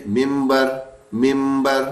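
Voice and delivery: ممبر with a held m, "mimmbar"; everyday pronunciation. Shown as a demonstration. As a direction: linger on the m in ممبر. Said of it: "کوئی منبر نہیں کہتا".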